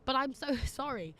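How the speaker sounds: apologising through a laugh; amused apology. Real, not acted. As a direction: laugh breaking into the sorry. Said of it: "I find it quite funny".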